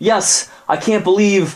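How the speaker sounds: put-on high-pitched scolding girlfriend voice; angry girlfriend. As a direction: tell him off from up high. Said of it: "the woman stepped up and she said".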